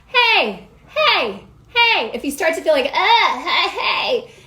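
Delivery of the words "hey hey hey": loose, friendly, playful sing-song holler. Showing learners how to call out to a friend across the street: playful hollering. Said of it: "pretend like you're hollering to your friend".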